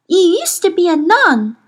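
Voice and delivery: a hint of a girl amazed at her own answer; Lyra, coming out of a trance. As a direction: state it like a child who just saw it. Lyra reveals a truth.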